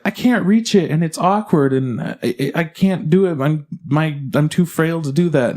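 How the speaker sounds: put-on high whiny old lady voice; mock frail old lady. Retelling the tenant, high and whiny. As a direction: whine it out like a helpless old woman. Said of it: "she's just like".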